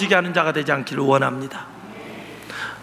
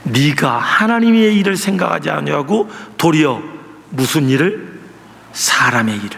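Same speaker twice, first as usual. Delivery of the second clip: low stern voice sinking lower; Jesus rebuking; 4 semitones lower than usual. Retold or imitated. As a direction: quote Jesus, dropping to a grave low end. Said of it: "근데 예수님이 하는 말이".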